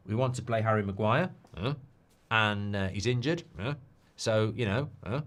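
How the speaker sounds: light mimicry with short "huh?" tags after phrases; Ten Hag. Streamer showing a manager's mannerism, lightly imitated "huh?" tic. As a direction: punctuate the phrases with a questioning "huh?". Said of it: "It's just the way he would talk".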